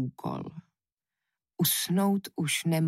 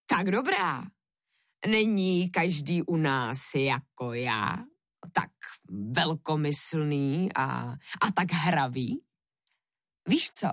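devil, playfully magnanimous. Acted. Devil grants Jiřík three last wishes, lightly playful. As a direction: strike a bargain like a self-pleased devil.

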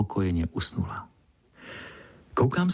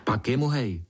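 said cheerfully; 3 semitones higher than usual. Acted. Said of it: "řekl jsem vesele".

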